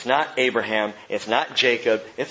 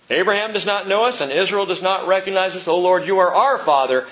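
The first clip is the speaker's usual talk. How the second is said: raised, insistent recital of a verse; mock proof-texting; 5 semitones higher, 5 dB louder than usual. Preacher mimics people who misuse the verse, mock proof-texting. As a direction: recite it as if proving a point.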